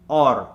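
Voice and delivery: or made forward in the mouth; forward Indian resonance. Shown as a demonstration. Coach tries it the wrong way, Indian "or". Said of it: "it'll sound like this".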